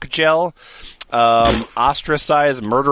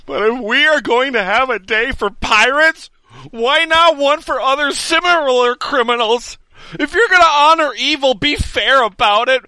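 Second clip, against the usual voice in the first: rising indignant rant, building higher; mock outraged rant; 5 semitones higher than usual. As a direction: rant like an offended commenter. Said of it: "my name is also the Green Wagon".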